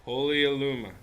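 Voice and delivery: murmured prayer. Acted. Priest beginning a healing prayer to Illuma, hushed. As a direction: breathe the goddess's name almost to yourself. Priest praying over the wounded.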